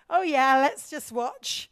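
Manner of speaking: slow, idle oh yeah; lazy, unbothered let's watch; mock British bystander, slow and drawn out; British detachment. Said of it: "a more British attitude".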